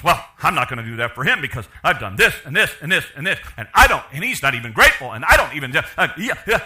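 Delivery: wife listing her grievances, loud and laughing; a hammed-up indignant wife; mock aggrieved wife. Wife mocking her husband in a marriage quarrel, indignant. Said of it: "And she goes".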